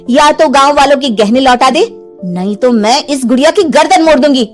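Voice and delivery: mildly stern, firm confrontation; stern threat. Acted. Heroine threatening witch with doll's neck, sternly. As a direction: lay down the ultimatum firmly.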